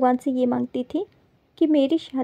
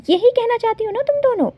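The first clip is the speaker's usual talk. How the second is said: sarcastic jab; 8 semitones higher than usual. Acted. Sarcastic retort to the two girls.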